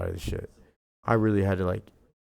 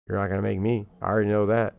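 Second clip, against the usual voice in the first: louder, each word planted hard; firm and louder; 2 semitones higher, 4 dB louder, faster than usual. Retold or imitated. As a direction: come back at him forcefully. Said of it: "I was like".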